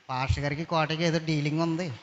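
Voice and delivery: mock ear-whispered rumour; gossip in the ear. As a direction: lean in and murmur the rumour. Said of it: "చెవులో చెప్పుకుంటున్నారు".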